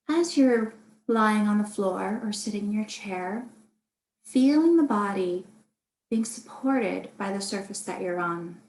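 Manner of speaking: calm, unhurried meditation guidance with long pauses; guided meditation. Acted. Meditation teacher guiding listeners through a body scan, calm and spacious. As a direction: lead gently through the body, leaving room to breathe.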